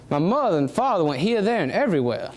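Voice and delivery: the same sentence in a gentle Southern lilt. Shown as a demonstration. Showing how the South says it today, in a Southern lilt. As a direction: let it roll with a Southern American lilt. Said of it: "what we know today as the Southern lilt".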